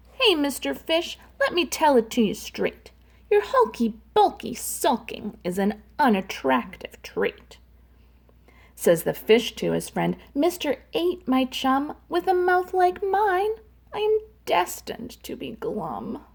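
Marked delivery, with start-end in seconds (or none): 0.1-7.6 octopus voice. Acted. 10.3-16.2 pout pout fish. Acted. Fish answers octopus.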